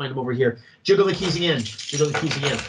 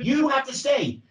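higher, urgent take on the line; raised insistent plea; 10 semitones higher than usual. Shown as a demonstration. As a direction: push the line up in pitch. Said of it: "what are the many different ways you can say this".

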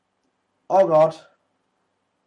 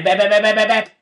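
put-on loud, higher childish bleating taunt; mocking bäh taunt; 7 semitones higher, 8 dB louder, much faster than usual. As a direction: tease the enemy like a kid.

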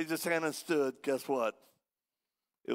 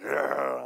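loud demon growl; mock snarl; imitated growl; 5 dB louder than usual. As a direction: growl it out as the possessed girl. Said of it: "starts growling".

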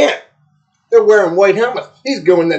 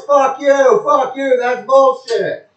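high-pitched mock yell, only a little louder; imitating yelling coach; 8 semitones higher, 4 dB louder, slower than usual. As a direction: mimic a coach ranting at the referee. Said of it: "He's yelling at the top of his voice".

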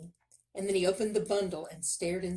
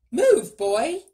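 high, very loud command; sharp shouted order; barked order; 7 semitones higher, 15 dB louder than usual. A narrator's reading. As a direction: bark it at a slow servant. Miller orders the boy about.

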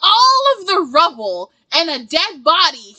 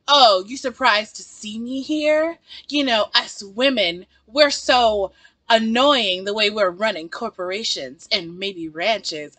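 smug mocking voice; 4 semitones lower, slower than usual. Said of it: "she's like".

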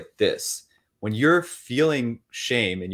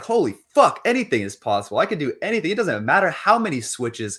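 excited and laughing, pitched higher and louder; elated; 5 semitones higher, 4 dB louder than usual. Shown as a demonstration. A joyful person shouting that anything is possible, elated. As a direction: burst out with joy, laughing through it. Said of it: "you're like".

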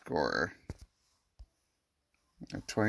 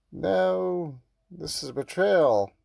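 hurt outrage; 6 semitones higher, 4 dB louder, slower than usual. Acted. Character feels betrayed.

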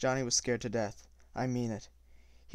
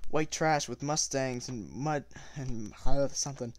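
voice shaking with rage; 4 dB louder than usual. Acted. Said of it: "my voice shaking with rage".

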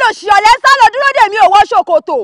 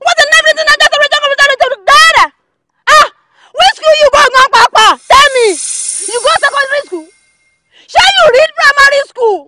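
angry crying rant; 4 semitones higher, 4 dB louder than usual. Acted. Heated mocking rant, voice breaking.

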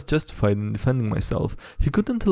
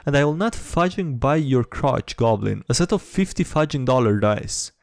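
1 furious rant. Acted. Narrator snaps, tells her off.

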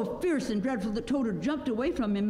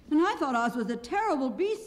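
high, astonished voice; Tin Woodman; 8 semitones higher than usual. A narrator's reading. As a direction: chime in high and amazed. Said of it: "said the Tin Woodman".

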